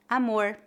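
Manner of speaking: Amor ending in a curled English-like R; Portuguese: amor com R retroflexo; retroflex R. Shown as a demonstration. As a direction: curl the tongue back on the final R of Amor. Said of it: "R retroflexo".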